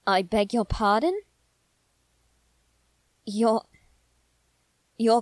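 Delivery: can't believe what she just heard; shocked. Acted. Shocked at the listener's plan.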